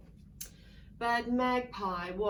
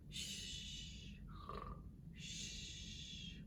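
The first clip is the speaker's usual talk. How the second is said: much softer breathy shh; shushing; 13 dB quieter, much slower than usual. Acted. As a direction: hush the sleepy animals. Hushing sleeping animals.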